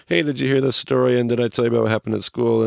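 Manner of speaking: a hint of a kid dodging bedtime with excuses; playful mock child pleading, rising and rushing; stalling kid. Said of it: "he's stalling like my kids would stall when it's bedtime".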